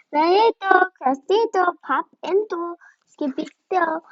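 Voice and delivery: high, loud excited call. Acted. Excited kid calling out.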